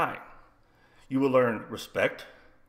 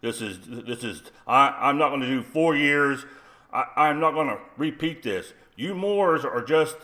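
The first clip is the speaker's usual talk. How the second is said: deep-voiced principal; 4 dB louder than usual. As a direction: imitate a pissed-off principal laying down the law. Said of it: "he has this really deep voice".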